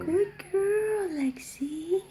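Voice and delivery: high praise, trailing to a whisper; sweet dog praise. Real, not acted.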